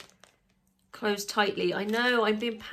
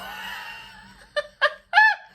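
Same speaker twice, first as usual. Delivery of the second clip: high loud burst of laughter; 9 dB louder than usual. Real, not acted. Snapping the swab in the tube, a high laughing shriek.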